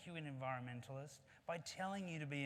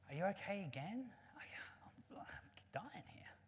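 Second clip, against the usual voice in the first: pitched-up monkey, faltering into softness; hurt monkey; 6 semitones higher than usual. Acted. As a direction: act the battered monkey, stammering and fading. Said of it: "he says to the rhino".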